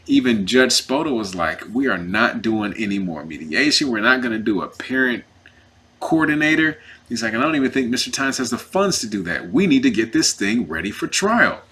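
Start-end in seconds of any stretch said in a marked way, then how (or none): 1.7-6.8 firm imitation of an insistent judge; deliberate, punched words laying down a ruling; emphatic. Judge refusing further mediation, emphatic. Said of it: "He's saying it emphatically like that". 7.3-11.6 insistent judge, retold with firm stresses; emphatic. Judge pushing the case to trial, emphatic. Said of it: "He's saying it emphatically like that".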